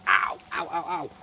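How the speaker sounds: pained ow ow after a burn; burnt fingertips. Real, not acted. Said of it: "it just burnt my finger".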